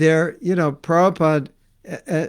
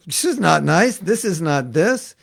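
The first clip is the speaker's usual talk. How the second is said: higher, firm rejection; put-off eater complaining; indignant complaint; 3 semitones higher, 3 dB louder than usual. Retold or imitated. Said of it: "you go".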